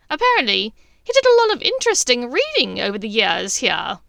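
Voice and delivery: huffy. A narrator's reading. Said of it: "Bellatrix huffed".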